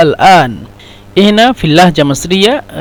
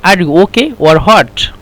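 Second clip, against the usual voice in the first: slow teaching read; much slower than usual. Shown as a demonstration. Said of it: "يعني".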